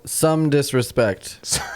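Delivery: drawn-out deadpan; slow deadpan. Real, not acted. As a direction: stretch it out, dry. Joking correction, drawn out.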